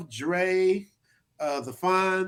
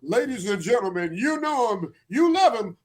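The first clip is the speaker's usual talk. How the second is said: announcer hype; 8 semitones higher, 5 dB louder than usual. Acted. Hypes up guest like announcer.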